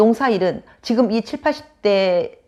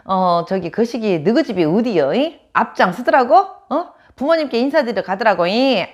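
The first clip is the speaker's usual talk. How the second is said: Jeolla dialect; 3 semitones higher than usual. Retold or imitated. Jeolla woman after one night, in lively Jeolla dialect. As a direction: imitate a Jeolla woman's brisk dialect questions. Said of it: "전라도 분들은 이렇게 말한대요".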